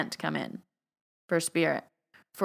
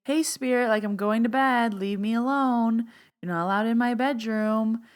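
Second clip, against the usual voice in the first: casual, higher, unconvinced request; half-hearted boundary; 4 semitones higher than usual. Shown as a demonstration. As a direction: say it without meaning it. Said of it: "You don't just say".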